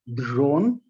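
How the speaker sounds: "dzhon" with a zh-like start; Russian pronunciation. Shown as a demonstration. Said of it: "convert foreign j into the zh".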